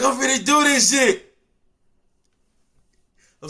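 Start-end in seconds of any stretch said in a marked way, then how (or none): 0.0-1.3 pumped-up shout. Retold or imitated. Inmate hyping himself up before court, yelling. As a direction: hype yourself up for court. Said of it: "You like".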